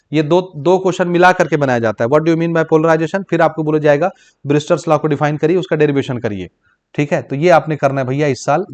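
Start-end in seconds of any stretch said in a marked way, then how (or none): 2.1-3.2 slow dictation. Shown as a demonstration. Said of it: "dictating the exam question".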